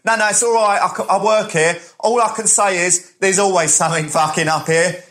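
high, protesting mock announcement; staffer addressing crowd. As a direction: placate a rowdy audience, imitating the worker. Imitates staffer addressing the audience.

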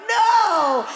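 loud, high, mock-horrified no; inner no. Woman recalling her inner reaction to the proposal, loud and high. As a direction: shout it as a silent protest.

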